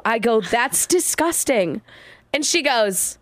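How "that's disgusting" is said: slow, dead-serious retort; slow mock-stern disapproval. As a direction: retell it slowly, dead serious. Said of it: "I looked at her dead serious".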